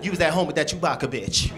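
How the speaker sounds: mock accusing girlfriend; sassy disbelief, lightly voiced; imitating his ex. Comic as his ex calling his lie, mildly sassy voice. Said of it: "She, she said".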